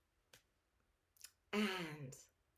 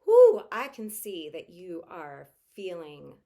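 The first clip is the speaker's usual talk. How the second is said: loud exhale, then slow soothing words; breathing out before comforting a stressed son; empathetic whew; 16 dB louder, slower than usual. Shown as a demonstration. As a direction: blow out the tension, then soothe. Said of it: "And even say to your child".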